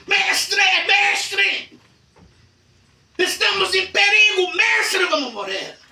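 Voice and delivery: high, loud, desperate calls; frightened calling. Acted. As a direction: shout to wake the master in terror. Disciples wake Jesus in storm. (chamando o mestre em pânico, alto e agudo)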